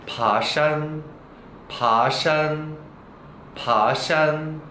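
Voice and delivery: 파산 drawn out very slowly; Chinese word demo. Shown as a demonstration. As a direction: stretch out 파산 for learners. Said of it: "이런 식으로". (파산을 아주 천천히)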